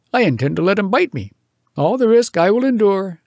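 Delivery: brash, excited bragging; eager boast. Acted. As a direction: challenge the scientist. Johnson boasting to museum man.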